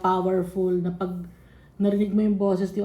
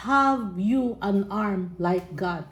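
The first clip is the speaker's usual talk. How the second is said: very slow, deliberate; slow scripture reading; much slower than usual. Acted. Preacher reading God's question to Job, very slow. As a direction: draw out each word.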